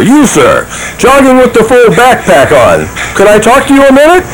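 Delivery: hurried. Acted. Chasing a jogger.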